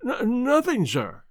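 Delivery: stammered, barely able to speak; stammering agitation. A narrator's reading. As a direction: choke out the words in panic. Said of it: "he could hardly speak".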